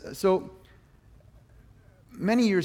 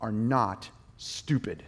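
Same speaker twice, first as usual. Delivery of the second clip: a hint of a stern shepherd setting him straight. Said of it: "he just very sternly said".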